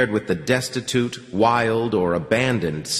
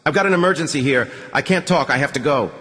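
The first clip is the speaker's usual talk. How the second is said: fast, higher, brusque officer; hurried colonel; 4 semitones higher, faster than usual. Acted. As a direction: rush it out like a busy commander.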